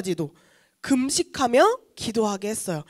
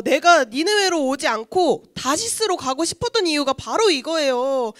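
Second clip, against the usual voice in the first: angry complaint. Acted. Jonah protests to God over sparing Nineveh, angry complaint. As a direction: act out an exasperated outburst at God. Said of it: "화를 내기 시작했어요".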